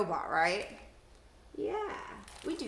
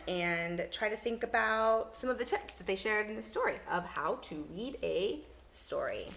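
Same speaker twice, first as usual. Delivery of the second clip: ordinary talk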